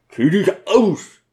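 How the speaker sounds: commanding. Acted. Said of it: "kommandierte er".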